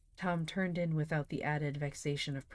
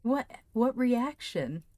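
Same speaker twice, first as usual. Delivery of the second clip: puzzled what; 7 semitones higher, 7 dB louder, slower than usual. Real, not acted. Confused at chat.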